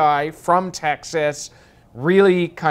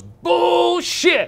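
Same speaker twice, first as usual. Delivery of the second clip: much higher and louder, scoffing outburst; general's shout; 6 dB louder than usual. Retold or imitated. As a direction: bark it out like a general brushing off the rule. General overrules the sergeant.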